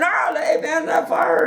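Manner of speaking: hammed-up warning shout from a stumbling drunk; mock drunk shout. Drunk dad warning about fire.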